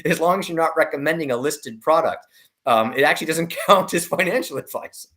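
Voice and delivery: laughing. Real, not acted. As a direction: let a real chuckle break into the line. Amused remark about financial advice.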